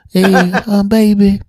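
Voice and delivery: high, hesitant put-on voice; high-pitched, drawn-out phone customer; slow-talking customer. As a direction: imitate a baffled slow caller, pausing between phrases. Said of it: "could you slow down a little bit".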